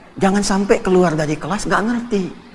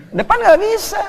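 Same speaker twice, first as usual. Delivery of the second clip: emphatic high; 3 dB louder than usual. Acted. Preacher stressing the point.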